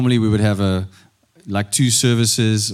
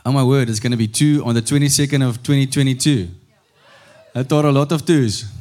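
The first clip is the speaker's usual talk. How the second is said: higher-pitched, celebratory delivery; rally the congregation for a birthday; real excitement, pitched up; excited announcement; 4 semitones higher than usual. Real, not acted.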